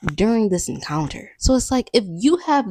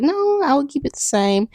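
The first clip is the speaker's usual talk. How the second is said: mock stubborn voice; 7 semitones higher than usual. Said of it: "some people be like".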